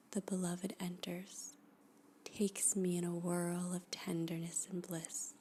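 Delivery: hushed poetry reading. Acted. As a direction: read each line like a guided meditation, letting it settle. Reads a poem aloud, hushed and slow.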